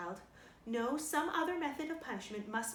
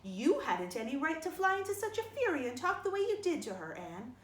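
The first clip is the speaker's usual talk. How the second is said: higher, louder stern scolding; 4 semitones higher, 4 dB louder than usual. Acted. Marilla rebuking Anne for her fury, sharp and loud. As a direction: scold the child firmly.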